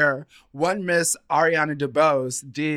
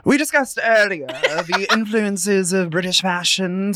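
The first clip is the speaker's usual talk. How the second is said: mock British accent; 3 semitones higher than usual. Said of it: "I'm gonna stop with my accent".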